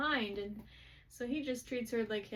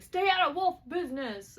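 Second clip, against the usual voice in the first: higher, louder mock warning; pissy retort; 6 semitones higher, 8 dB louder than usual. Woman pressured to leave warns them off, pissy retold retort. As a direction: act out a pissy send-off. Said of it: "being all pissy about that".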